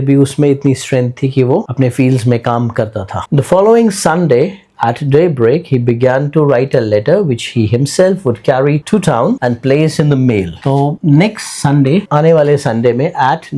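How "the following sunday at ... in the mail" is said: reads the story line slowly and clearly; careful classroom reading, each phrase spaced; slow textbook reading; slow read-aloud. Acted. Teacher reads story text aloud.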